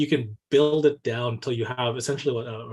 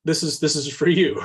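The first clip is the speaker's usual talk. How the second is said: eager call-out; 3 semitones higher, 4 dB louder than usual. Retold or imitated. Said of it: "grabbing me and saying".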